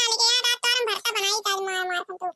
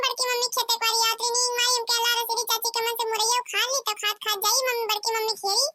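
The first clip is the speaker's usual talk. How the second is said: put-on child voice. Kallu the child speaks.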